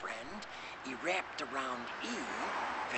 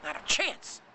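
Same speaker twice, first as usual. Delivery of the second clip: high, loud breathless man; out of breath; 10 semitones higher, 7 dB louder than usual. Acted. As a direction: gasp it out tired.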